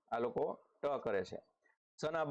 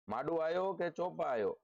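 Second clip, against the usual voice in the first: Kutchi dialect; 5 semitones higher than usual. Shown as a demonstration. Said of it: "તો આ કચ્છી બોલી છે".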